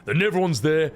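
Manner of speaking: put-on irritable character voice; gruff, foul-mouthed game character. Streamer voicing a reply about the crater, irritable character voice. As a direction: scold like a crude, impatient comrade.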